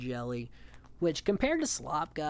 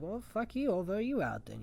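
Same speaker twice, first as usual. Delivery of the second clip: higher, mock spiteful snap; spiteful retort; 6 semitones higher than usual. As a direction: toss it off with petty spite. Josh's spiteful reaction.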